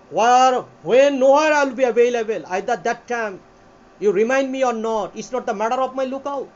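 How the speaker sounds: declaimed slowly, opening loud; song lyric rendering. Shown as a demonstration. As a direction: deliver it like a drawn-out song lyric. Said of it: "আপনি যদি গান করতে চান".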